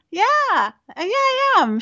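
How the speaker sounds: high, nervous squeaky admission. Retold or imitated. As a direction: climb into a squeak as you confess. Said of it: "as my voice gets higher and higher pitched".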